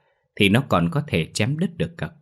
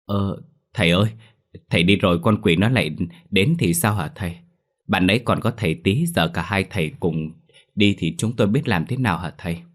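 anxious plea. Acted. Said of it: "kêu lên".

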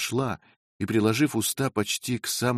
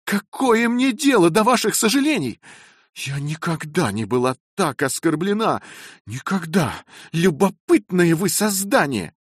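higher, louder, furious scolding; indignant outburst; 9 semitones higher, 5 dB louder than usual. A narrator's reading. Young wife scolding the landlady's daughter, furious and loud. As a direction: tear into the maid, offended to the core. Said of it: "ещё более возмущённая".

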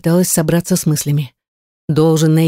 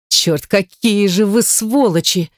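outburst; 3 semitones higher, slower than usual. Acted. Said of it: "не выдержала я".

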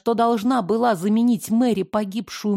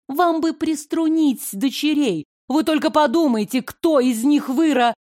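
cut off mid word; 5 semitones higher than usual. Acted. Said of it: "пощёчина оборвала меня на полуслове".

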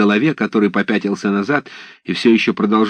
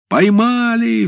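высокий громкий выкрик; объявить удачу на весь дом; радостный вскрик; 14 semitones higher, 4 dB louder, much slower than usual. Acted. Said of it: "вскрикнули вошедшие". (десятские радостно вскрикивают, ворвавшись в хату)

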